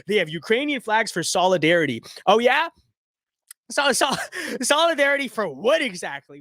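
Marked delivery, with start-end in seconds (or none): 3.7-6.4 scoffing laugh through a sarcastic question. Real, not acted. Mocking a commenter's claim of solidarity with a laughing scoff. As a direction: laugh at the idea while asking.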